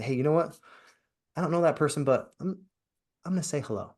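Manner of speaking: acted friendly resolve. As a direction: pitch it up a little, as if talking yourself into it. Voices someone deciding to greet stranger.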